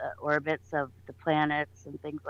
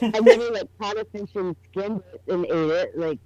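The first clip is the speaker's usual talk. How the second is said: speaking into a pillow; words lost in the pillow; muffled by pillow; 3 semitones higher, 7 dB louder than usual. Real, not acted. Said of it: "You're talking into the pillow".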